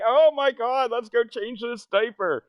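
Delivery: high, loud gushing coo; mom baby voice. Retold or imitated. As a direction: gush at the baby over the diaper. Sister cooing at baby.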